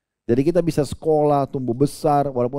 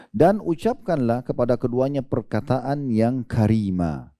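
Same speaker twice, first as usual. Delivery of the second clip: slow solemn translation; slower than usual. Acted.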